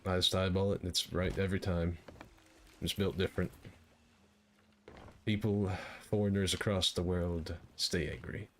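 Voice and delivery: light pirate voice, held all along. Real, not acted. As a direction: talk like a pirate the whole time. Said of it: "developed a pirate voice that I stick to".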